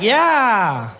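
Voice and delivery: high, loud, slow laughing taunt; gloating receptionist. Retold or imitated. Check-in woman gloating at the comedian, high and slow. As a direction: savour his bad luck. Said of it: "It's like".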